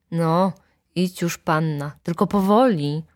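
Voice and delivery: plain reading voice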